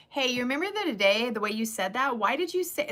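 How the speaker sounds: confronting a friend head-on; blunt. Shown as a demonstration. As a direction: come right out with it. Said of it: "that's how I talk".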